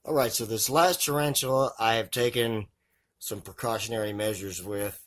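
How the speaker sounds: muffled through a face covering. Real, not acted. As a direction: talk with mouth and nose covered. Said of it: "I apologize if my voice sounds a bit muffled".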